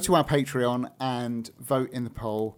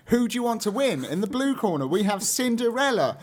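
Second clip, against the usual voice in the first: louder, higher ringside announcer call; boxing ring announcer; 8 semitones higher, 4 dB louder than usual. Pretend. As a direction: introduce the fighter in the blue corner. Ring introduction, blue corner.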